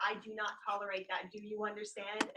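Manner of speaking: firm, lightly voiced babysitter warning; a hint of a stern sitter scolding; best babysitter voice. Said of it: "with my best babysitter voice".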